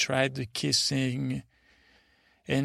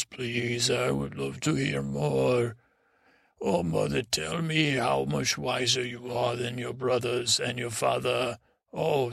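lightly acted fawning admiration; flattering good listener. Podman practises impressing mother, mildly hammed-up flattery. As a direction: play the eager listener, drawing out the last praise. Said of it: "new set of behaviors to impress mother".

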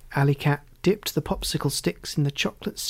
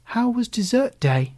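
excited mum; 7 semitones higher than usual. A narrator's reading. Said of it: "Mum asked excitedly".

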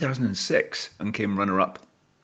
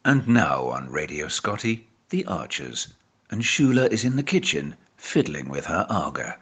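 radio announcer parody. Pretend.

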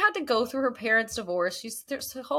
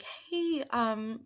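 mock nice voice; 6 semitones higher, slower than usual. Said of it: "she wasn't upset. She was being really nice".

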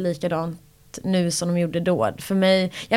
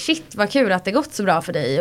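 genuinely glad. Retold or imitated. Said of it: "vissa är så här".

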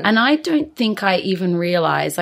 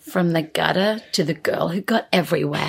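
movie trailer voice. Pretend. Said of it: "Now we're doing, like, a movie trailer".

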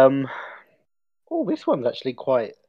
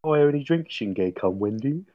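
put-on character voice; Richmond's voice. Doing a requested impression for the co-host, in character. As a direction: do a comic impression, barely holding it together. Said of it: "but in Richmond's voice".

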